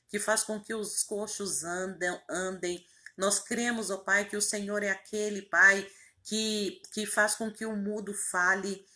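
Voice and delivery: earnest, insistent praying voice, pushing key words; fervent prayer. Real, not acted. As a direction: pray aloud with conviction, phrase after phrase. Leads a fervent spoken prayer. (oração fervorosa em voz alta)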